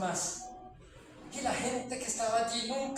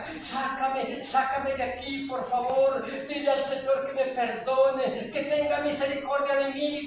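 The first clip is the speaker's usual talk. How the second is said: mild mock yell; 2 semitones higher, 4 dB louder than usual. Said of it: "gritaba la gente".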